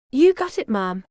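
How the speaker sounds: lightly put-on Southern twang, playing the son-in-law; hillbilly accent. Teasing the suspicious waitress in a lightly put-on hillbilly accent. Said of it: "that hillbilly accent".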